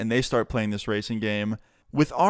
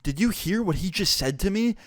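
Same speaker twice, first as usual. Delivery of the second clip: affronted, high-pitched disbelief; indignant; 7 semitones higher than usual. Retold or imitated. Insulted lady to Wilson's mom, high indignant disbelief. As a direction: imitate an offended mother, pitch jumping up. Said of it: "did not like that whatsoever".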